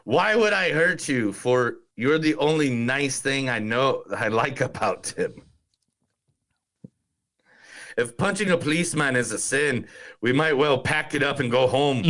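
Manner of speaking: a light Irish lilt on the film quote; Irish accent. Retold or imitated. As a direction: read the line like an Irish villager. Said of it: "Thank you for the Irish accent".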